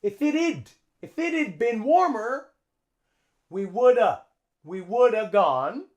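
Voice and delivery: "If it had" as "iffit-ud"; "woulda" with no V, linked to "gone"; contraction. Shown as a demonstration. Teacher models the contraction for learners, linked and reduced. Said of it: "we use a contraction here".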